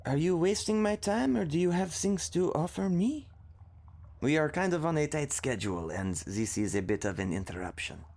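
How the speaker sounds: the impatient queen demanding answers; lightly voiced impatient queen; queen questioning. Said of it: "The queen is questioning".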